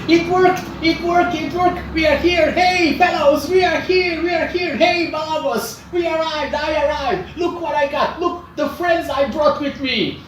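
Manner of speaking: very high, loud, excited little creature; exultant Grisky. Acted. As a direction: shout the triumph to your friends in a squeaky-high voice. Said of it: "and Grisky says".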